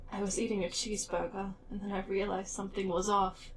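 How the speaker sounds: lightly put-on spooky narrator; spooky storytelling voice. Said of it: "gotta get into the mood of the spooky".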